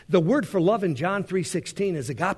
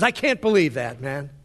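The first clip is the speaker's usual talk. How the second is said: loud, scornful accusing devil; mock accuser heaping shame; 3 semitones higher, 6 dB louder than usual. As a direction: hammer the sinner with blame. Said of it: "the devil says".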